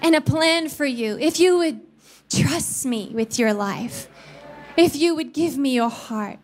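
a touch of the Spirit's tender call; tender voice of God. Retold or imitated. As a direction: speak love to a child. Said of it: "not an audible voice".

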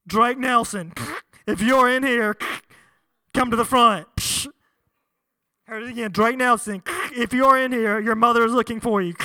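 loud, flat store-intercom call; intercom announcement. Retold or imitated. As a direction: announce it over the store speakers. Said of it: "eventually I heard".

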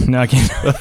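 ordinary delivery

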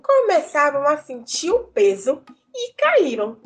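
put-on lively storyteller voice for kids; reading to children. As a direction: tell the tale to children with wonder. Tells a folk tale to children.

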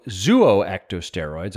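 "zooectosteroids" begun as two syllables, zoo-oh; chosen pronunciation. Shown as a demonstration. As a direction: say "zooectosteroids" slowly as zoo-oh-ecto-steroids. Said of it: "I'm just gonna pronounce it like that".

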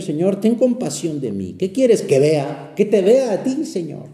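prayerful plea that climbs; pleading prayer. Acted. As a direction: plead with the Lord, lifting the pitch on the last requests. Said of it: "vamos a pedirle al Señor".

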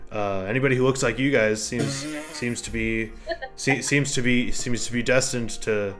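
an ancient mushroom speaking after centuries; gruff mushroom voice. Acted.

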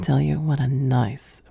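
hushed, teasing bedroom whisper; a quick racy whispered line; sultry whisper. Shown as a demonstration. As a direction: whisper it like a come-on. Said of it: "I may drop it a couple octaves".

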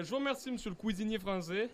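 hint of a German accent; comic German-accented French. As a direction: slip into a mock German accent. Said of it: "je vais faire un accent allemand".

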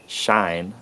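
"shine" in a Southern US accent with only a slight glide; Southern US slight diphthong. Shown as a demonstration. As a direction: say "shine" like a US Southerner, the I barely gliding. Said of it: "it's a slight diphthong".

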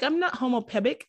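quick mock "homopebic" with the p sound; imitating Mister Kim's mispronunciation. Host quoting Mister Kim's mispronounced "homopebic", lightly accented. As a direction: lightly mimic Mister Kim botching "homopebic". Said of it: "Mister Kim's accent, he's, like, mispronouncing words".

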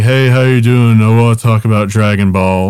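lightly voiced dazed boy. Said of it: "he'd be like".

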